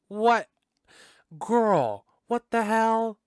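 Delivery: real gasp of "what the hell?"; genuinely floored by the twist; shocked disbelief. Real, not acted. Reacting to shocking plot twist.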